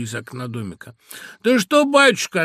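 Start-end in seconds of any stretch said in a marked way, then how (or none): 1.4-2.4 high, loud, lilting answer; sing-song old woman. A narrator's reading. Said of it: "отвечал та нараспев". (старушечьим говором нараспев)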